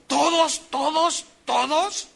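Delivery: high, pleading "todos" repeated by the big man; tearful disbelief. Retold or imitated. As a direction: ask it again and again, hardly believing. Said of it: "Y dijo". (el hombre conmovido, incrédulo, repite "¿todos?" agudo)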